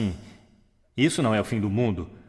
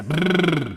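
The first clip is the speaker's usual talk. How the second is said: lip trill; 5 semitones higher than usual. Shown as a demonstration. Coach leading audience warm-up, buzzing lip trill. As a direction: blow a long lip trill like a child. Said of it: "igual quando você era criança".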